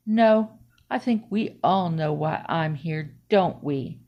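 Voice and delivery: low, slow knowing officer voice; knowing suspicion. Acted. Officer to the suspect in the library, knowingly suspicious. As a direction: drop low and draw it out slowly.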